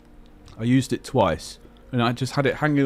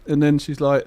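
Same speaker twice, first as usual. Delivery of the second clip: usual speaking voice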